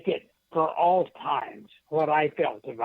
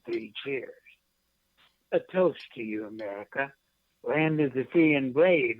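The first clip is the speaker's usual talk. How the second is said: measured poem recital with a lift on the toasts; poem reading. Acted. Poet reading his verse to the radio host, proudly. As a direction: read it like a proud toast to the nation.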